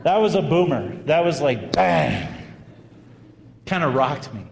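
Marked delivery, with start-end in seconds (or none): 1.7-2.3 low, punched-out bang; imitated bang. Preacher retelling what rocked him, imitated bang. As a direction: drop low and hit it like an impact.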